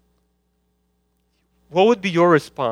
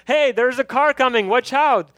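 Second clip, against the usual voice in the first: higher, urgent mock yell; parent's warning yell; 5 semitones higher than usual. Parent warning a child running to the street, urgent mock yell. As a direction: call out like a parent seeing a kid near the road. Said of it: "and he yells".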